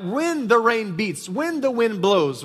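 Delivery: slow, each "when" given weight; "when" drawn out and emphasized; stress on when. Shown as a demonstration. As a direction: lean on every "when" in a measured list. Stressing trials will surely come.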